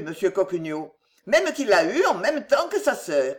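a lightly voiced insistent old servant; stubborn old countrywoman. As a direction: argue it, old gossip style. La mère Fouillette s'obstine. (vieille commère têtue, voix légère)

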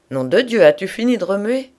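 loud, high exasperated outburst; sudden shout. A narrator's reading. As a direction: burst out shouting at a restless bedmate. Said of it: "cria-t-il tout d'un coup".

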